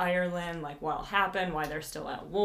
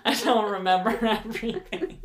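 laughing; 3 semitones higher, 5 dB louder than usual. Real, not acted. Laughing after drinking admission.

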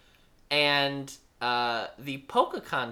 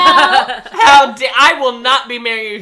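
loud, fast, laughing refusal; mock indignant; 8 semitones higher, 17 dB louder than usual. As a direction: huff and refuse loudly. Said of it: "she's like".

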